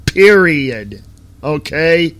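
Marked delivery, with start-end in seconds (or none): 0.1-1.0 short, final, falling stamp; emphatic period. Real, not acted. Host ending his argument with a flat stamp. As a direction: close the point hard. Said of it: "I'm going to say this one more time".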